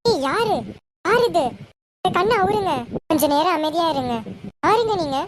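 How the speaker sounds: panicking under a blindfold; frightened. Acted. Blindfolded wife, scared, demanding the cloth come off.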